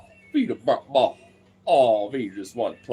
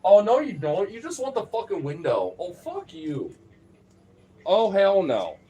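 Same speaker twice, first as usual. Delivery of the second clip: raised pitch, louder mock outrage at the dog; raised scolding at the pet; 8 semitones higher, 3 dB louder than usual. Real, not acted. Owner scolding the dog hogging the window, mock-outraged. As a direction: call the dog out, half-laughing indignation.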